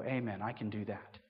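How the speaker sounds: low, soft understated agreement; lightly voiced reserved Brits. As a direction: agree quietly and low, stiff upper lip. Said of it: "all the Brits in the room would go".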